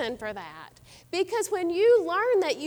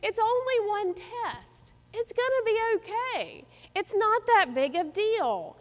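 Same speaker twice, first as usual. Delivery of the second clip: reassuring; 5 semitones higher than usual. Retold or imitated. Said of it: "I would say".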